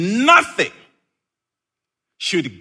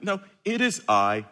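formal Jesus; 4 dB quieter than usual. Shown as a demonstration. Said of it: "he says".

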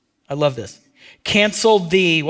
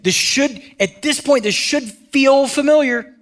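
much higher and louder, nudging; pointed hint; 8 semitones higher, 4 dB louder than usual. Retold or imitated. Jesus nudging his listeners that this should feel familiar, high and pointed. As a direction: raise the voice high as if dropping a heavy hint. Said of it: "He was like".

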